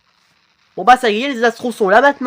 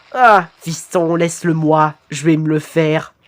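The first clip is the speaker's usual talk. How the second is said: lightly robotic father; 3 semitones lower than usual. Acted. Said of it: "ta voix robotique là". (légère voix de robot)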